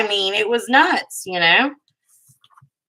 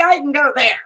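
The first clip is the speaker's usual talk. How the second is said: eager; 8 semitones higher, 3 dB louder than usual. Retold or imitated. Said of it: "I would be like".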